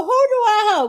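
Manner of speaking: laughing disbelief. Retold or imitated. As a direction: still laughing, slightly calmer. Repeat of the laughing denial.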